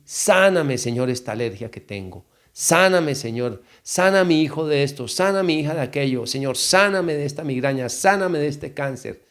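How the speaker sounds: insistent plea, each request starting high; model prayer. Shown as a demonstration. Preacher showing listeners how to ask for healing, pleading prayer. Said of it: "puedes decir en tu oración".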